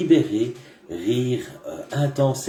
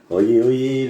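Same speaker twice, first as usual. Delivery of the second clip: town crier; 2 semitones higher, 5 dB louder than usual. Pretend. Mock town crier opening.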